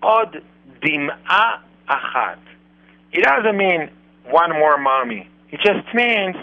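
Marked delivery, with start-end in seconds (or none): 0.0-2.4 Od Dim'a Achat, slow, with a doubled d joining "Od" to "Dim'a"; the Hebrew phrase said slowly and carefully; correct pronunciation. Shown as a demonstration. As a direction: linger on "Od Dim'a" so the d carries over. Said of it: "but we say".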